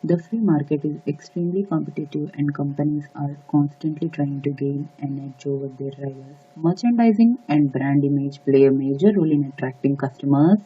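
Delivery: soft, low, even reading; practice read-through. Shown as a demonstration. Exam coach quietly rehearsing the text in preparation time, practice read-through. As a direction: read it under your breath to rehearse. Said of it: "I'll just read out in that forty seconds".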